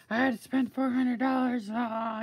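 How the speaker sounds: high, loud imitation of his griping; mock complaint. Retelling his homecoming after the expensive shopping trip, mock complaining. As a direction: mimic him wailing over the money. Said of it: "he came home and he said".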